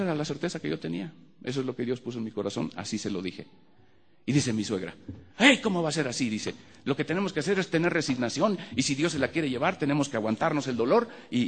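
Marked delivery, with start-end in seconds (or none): 5.4-11.4 lamenting mother-in-law. Retold or imitated. Mother-in-law urging the family to accept the loss, high and wailing.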